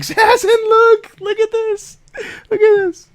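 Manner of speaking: high-pitched, gleeful showing off; mock excited bragging. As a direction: squeal it like you're taunting a friend. Mock-bragging to friend over a stream.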